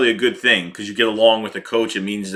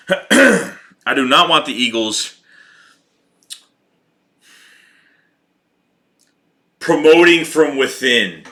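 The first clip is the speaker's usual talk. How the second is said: each word laid down slowly and firmly; slow, deliberate restart; 2 semitones higher, 3 dB louder, slower than usual. Shown as a demonstration. Fan correcting himself, slow and deliberate. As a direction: start over and spell it out slowly.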